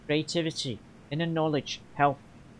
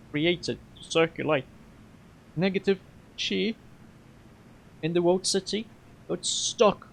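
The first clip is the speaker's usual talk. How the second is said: put-on halting, lightly Russian-accented character voice; 4 semitones higher than usual. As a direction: attempt a Russian accent, pausing between phrases. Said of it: "he was supposed to be Russian".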